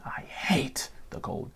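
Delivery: slow, soft whispered repeat. Real, not acted. Vlogger repeating his hatred of cold in a slow whisper. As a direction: whisper it again like a secret grudge.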